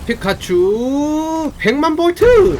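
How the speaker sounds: slow, high, drawn-out attack call; skill name shout. Acted. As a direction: yell the move like an anime hero.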